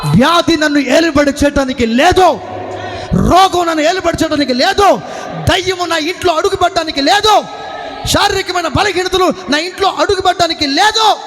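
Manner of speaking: fiery sermon declaration; preaching at full force. Acted. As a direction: proclaim it over the crowd.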